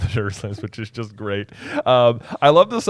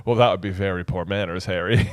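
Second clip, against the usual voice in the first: Dumbledore; 5 semitones lower than usual. Acted. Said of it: "And Dumbledore's like".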